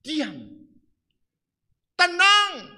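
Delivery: loud, high "Tenang"; Jesus silencing the storm with a loud command. Acted. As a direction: command the wind to be still. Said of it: "Yesus muncul dan dia kata".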